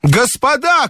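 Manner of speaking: high, imploring call; pleading cry. A narrator's reading. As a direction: beg them to stop. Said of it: "крикнул я умоляющим голосом".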